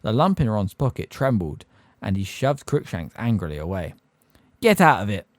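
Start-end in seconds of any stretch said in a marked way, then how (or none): 4.6-5.3 angry shout. Acted. Ron shoves the cat away.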